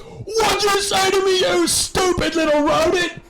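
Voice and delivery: high, loud, bellowing guard; threatening shout. Acted. Guard snarling back at the caged Bellamy, loud and angry. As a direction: roar it down at the little creature.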